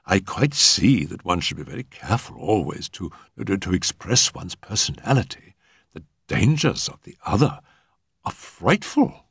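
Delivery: falter, then lift into mild dismay; gushing society hostess. Acted.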